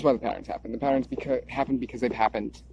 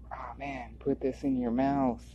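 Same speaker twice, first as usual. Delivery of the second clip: mock government voice; slower than usual. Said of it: "government be like".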